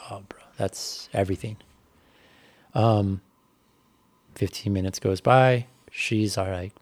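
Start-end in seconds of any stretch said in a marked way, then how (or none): 0.1-1.6 whispered, moved, under the breath; awed whisper. Retold or imitated. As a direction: breathe it out in quiet awe. Moved inner thought.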